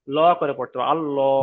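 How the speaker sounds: আল্লাহ with full round ল, lips rounded; heavy Allah. Shown as a demonstration. Teacher demonstrating heavy আল্লাহ to students. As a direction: say আল্লাহ with a thick rounded lo sound. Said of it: "মুখটা গোল করে পড়তে হবে".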